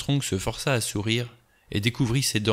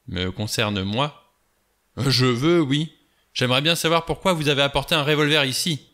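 higher, louder, heated accusation; angry confrontation; 4 semitones higher, 4 dB louder than usual. Acted. Blore confronting Lombard, heated and loud. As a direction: push at him, rising anger.

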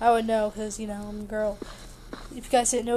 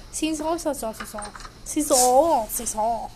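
French-sounding; 2 semitones lower, 4 dB quieter than usual. Real, not acted. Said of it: "I sound like I'm French".

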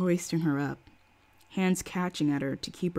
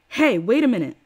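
angry; 5 semitones higher, 8 dB louder than usual. A narrator's reading. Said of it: "very angry".

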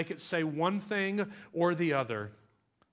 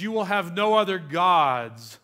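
louder commanding God voice; 6 dB louder than usual. Acted. Preacher quoting God's commandment, loud and commanding. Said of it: "It says".

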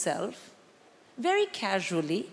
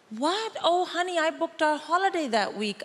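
high, wide-eyed fake surprise; sweet, high, faked astonishment at the mother-in-law's visit; mock innocent surprise; 6 semitones higher than usual. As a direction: play the innocent wife who swears she didn't know. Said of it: "Stuff like".

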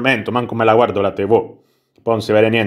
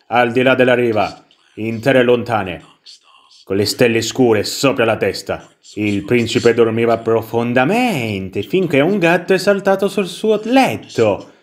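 measured storybook reading with drawn-out phrase endings; bedtime story narration. Acted. Player reads the little story to the baby, measured storybook narration. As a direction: read a fairy tale to a little one. Legge la storiella.

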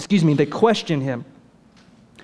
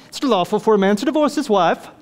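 put-on haughty English butler accent; snooty English accent; 4 semitones higher, faster than usual. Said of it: "this snooty English voice".

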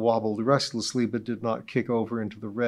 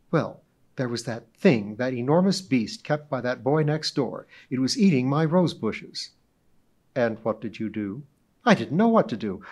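more quietly; 3 semitones higher, 4 dB louder than usual. Acted. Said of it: "went on more quietly".

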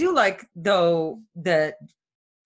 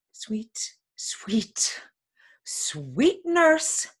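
coaxing; much slower than usual. Acted. Juliet buttering up the nurse for news, coaxing. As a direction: sweet-talk the nurse into telling.

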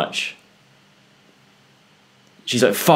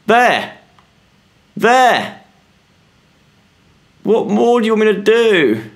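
exasperated; 10 semitones higher than usual. Real, not acted. Frustrated at game puzzle.

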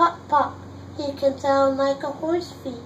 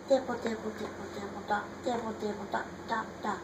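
much softer pattering; soft rain; 4 semitones lower, 11 dB quieter, much faster than usual. Acted. Reading the rain page, soft pattering. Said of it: "He can sound like rain".

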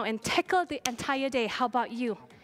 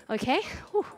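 out of breath. Real, not acted. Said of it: "I can't even speak properly".

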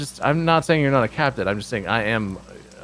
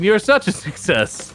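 smiling sarcasm; 6 semitones higher than usual. Acted. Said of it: "you laughed and or smiled while saying that".

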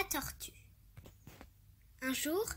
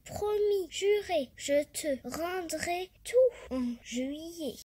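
pleading cicada; 4 semitones higher, 4 dB louder than usual. Acted. Cicada promising to repay.

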